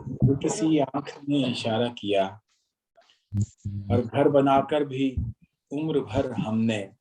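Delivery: measured, rhythmic ghazal recital; poetry recitation. Acted. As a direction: recite each line with weight.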